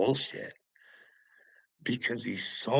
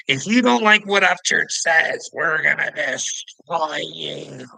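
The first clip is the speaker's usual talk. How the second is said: much higher, louder, cartoonish fanatic voice, slowing to a threat; mock fanatic follower; 6 semitones higher, 7 dB louder than usual. Vlogger mocking Upchurch's followers as a fanatic, high hammed-up threat. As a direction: ham up a frothing cult follower. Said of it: "Hating all over the internet".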